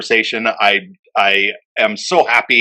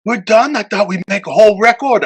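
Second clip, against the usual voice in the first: higher, puzzled questioning; surprised Roland; 9 semitones higher than usual. Retold or imitated. Sound puzzled and let down. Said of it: "he's like".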